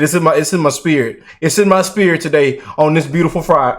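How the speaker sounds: ordinary talk, nothing marked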